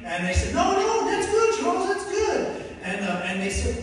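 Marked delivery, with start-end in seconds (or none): 0.5-2.6 higher, friendly voice for the group; lightly voiced encouraging sisters; encouraging church folk. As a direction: reassure the newcomer brightly.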